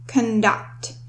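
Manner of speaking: conduct again, softly, stress on DUCT; stress on second syllable. Shown as a demonstration. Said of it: "the stress in this word is on the second syllable".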